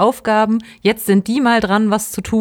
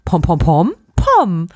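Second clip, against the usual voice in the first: imitating Pompom; 4 dB louder, slower than usual. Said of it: "nichts sagt außer Pom".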